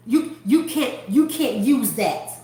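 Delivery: slow, curt refusal of a clerk; short, curt clerk. Retold or imitated. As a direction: imitate a short, unhelpful worker. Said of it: "Very short".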